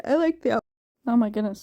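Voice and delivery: talking through a yawn; words stretched by a yawn. Real, not acted. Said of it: "sorry, I'm yawning so much".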